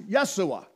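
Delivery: Yeshua with the Hebrew stress; Hebrew emphasis. Shown as a demonstration. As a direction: say Yeshua with the stress on its native syllable. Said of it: "putting the emphasis where it is".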